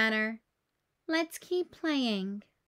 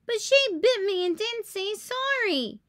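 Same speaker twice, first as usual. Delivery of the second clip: huffy complaint; 9 semitones higher, 4 dB louder than usual. Acted. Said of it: "huffs Bluey".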